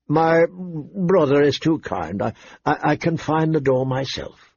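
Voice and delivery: hesitant words, holding back amusement; lightly acted suppressed mirth; stifled laughter. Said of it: "Lord Renly stifled his laughter".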